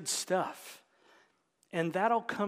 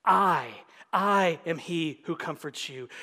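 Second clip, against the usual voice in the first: "I" repeated with emphasis, the first set apart by a pause; emphatic I; 2 semitones lower than usual. Shown as a demonstration. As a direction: lean on the doubled "I", then let the rest fall. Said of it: "it's emphatic in the Hebrew".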